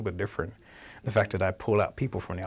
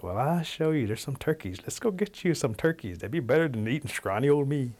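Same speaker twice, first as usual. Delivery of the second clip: lightly voiced, higher-pitched rabbit; eager little sales pitch; coaxing rabbit; 6 semitones higher than usual. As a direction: talk the predator into a better meal. Rabbit coaxes the wildcat.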